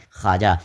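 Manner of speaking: teacher's clear خواجہ, pronounced "khaaja"; silent vao. Shown as a demonstration. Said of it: "یہاں بھی واو کو ہم پڑھ نہیں رہے ہیں".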